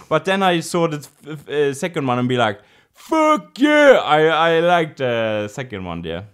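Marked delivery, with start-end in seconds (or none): 2.9-4.0 high, loud, enthusiastic outburst; excited cheer. Retold or imitated. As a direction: cheer it like a thrilled fan. Acts out delight at second film.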